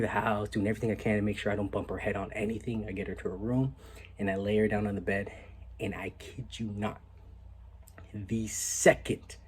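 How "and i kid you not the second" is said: hushed, slow whisper; whispered build-up before the reveal; suspenseful whisper. Real, not acted. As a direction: lean in and whisper it.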